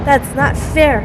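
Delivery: real sulky protest. Real, not acted. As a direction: grumble at the injustice. Complains about the ending.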